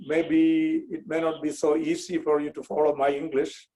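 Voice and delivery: Indian English with a Kerala accent. Real, not acted. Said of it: "I'll be speaking with an accent".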